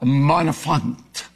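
careful French accent on the name. Shown as a demonstration. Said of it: "I hope I'm getting my French accent".

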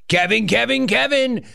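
high sing-song calling of the name; sing-song Kevin call. Acted. Host teasing a caller with a high sing-song chant.

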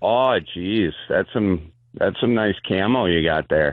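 a light Wisconsin lilt, flirty and friendly; lightly voiced gay guy from Wisconsin admiring the camo. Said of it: "I love the gay guy from Wisconsin".

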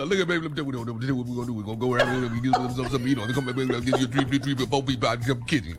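mock boyfriend voice. Mocking the boyfriend's speech.

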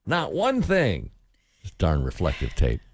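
a hint of a fussy old lady; lightly voiced old lady.

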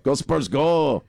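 slow chanted cheer with laughter; laughing cheer. Real, not acted. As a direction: draw it out, chuckling.

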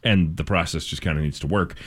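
steady radio news delivery; measured news-anchor reading. Acted. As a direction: read it as a local newscast. Reads local news.

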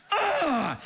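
high exasperated "ugh"; steaming groan. Retold or imitated. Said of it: "steaming now".

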